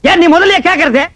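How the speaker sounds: loud, indignant comeback; angry retort. Acted. Landlord to wrong caller on phone, angry retort. Quarrel over mistaken phone call.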